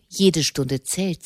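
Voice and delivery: slow mock imitation of Mama's command; quoting Mama. Monk repeating Mama's order to his brother, lightly mimicked. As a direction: echo her words with slow weight. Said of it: "Mama wünscht".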